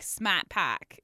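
put-on Boston accent Smat Pack, r dropped. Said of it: "have a Boston accent".

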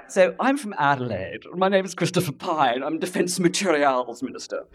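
patriarchal establishment tone of voice; Christopher Pyne. Retold or imitated. Politician introducing himself, in a patriarchal Adelaide establishment voice. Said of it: "who's ever heard Christopher Pyne speak?".

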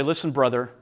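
sincere confession. Shown as a demonstration. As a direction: confess humbly and plainly. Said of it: "we go to one another and say".

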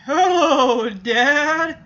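a child mimicking her father with a giggle; girl's impression of dad. Girl greets her dad doing her own impression, laughing. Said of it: "trying to do her own impression".

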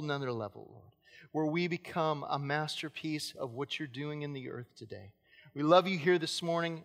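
earnest, hushed pastoral prayer. Acted. Leads a prayer before sermon.

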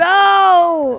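loud no. Acted. Rejecting the band praise.

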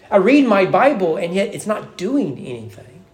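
acted discouraged believer; despair. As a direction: let frustration sag into hopelessness. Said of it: "You hear the despair?".

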